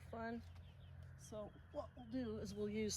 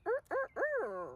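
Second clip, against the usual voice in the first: high strained rooster crowing; hammed-up crowing of a tired old rooster; rooster crow imitation; 4 dB louder, slower than usual. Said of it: "that's exactly what he sounds like".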